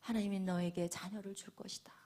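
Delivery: low, whispered blessing; hushed blessing. Retold or imitated. Eli blessing Hannah, whispered. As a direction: send her off softly with a promise. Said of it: "그러자 이 엘리 제사장이".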